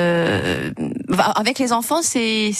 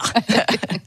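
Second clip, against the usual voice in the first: frog croak laugh; 2 semitones higher than usual. Pretend. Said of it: "fais la grenouille".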